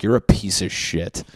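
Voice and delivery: mock disgust, said with force; scornful retort. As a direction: snap back at your younger self. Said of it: "in hindsight, you're like".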